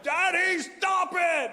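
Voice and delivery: high mock shout of a little girl; whine-yell it up high at daddy; angry child. Daughter yelling at her laughing dad, high mock shout.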